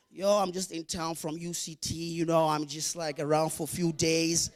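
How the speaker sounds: low, soft, offhand student voice; posh student voice. Retold or imitated. Exchange student answering friends, low and soft.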